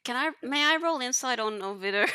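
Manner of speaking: high, loud, teary-laughing plea; overwhelmed laughing plea; half-crying laugh. Real, not acted. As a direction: ask through emotional laughter. Player overwhelmed, asking for roll.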